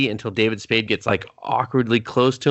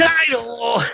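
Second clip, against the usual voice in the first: high, loud, announcer-style call-out; mock title call; 10 semitones higher, 4 dB louder than usual. Cohost jokingly ends the movie, with a hammed-up announcer call.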